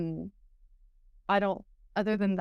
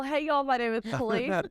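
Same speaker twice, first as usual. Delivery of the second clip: Texas drawl; 4 semitones higher than usual. Real, not acted. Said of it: "The Texas twang".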